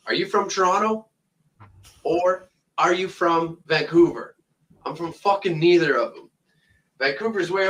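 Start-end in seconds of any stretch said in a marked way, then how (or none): 0.1-4.3 ape a clueless Yankee tourist asking; mocking tourist question. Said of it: "I get asked the same stupid fucking question".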